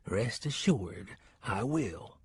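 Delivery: slow, hushed Southern drawl; Southern accent. Acted. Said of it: "whispered Ted Riley in a deep Southern accent".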